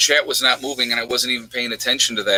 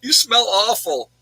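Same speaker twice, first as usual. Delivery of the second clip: giddy mock disgust, pitched way up; laughing inner voice; 10 semitones higher than usual. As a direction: squeal it out, half laughing. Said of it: "It was like".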